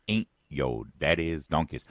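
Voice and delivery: lightly put-on Detroit accent; Kamala Harris. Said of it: "in the new accent of Kamala Harris".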